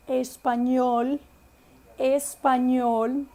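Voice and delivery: espanhol slowly, every vowel pure, clear final l; slow Spanish pronunciation. Shown as a demonstration. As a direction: drag out espanhol syllable by syllable. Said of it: "não muda a pronúncia da vogal".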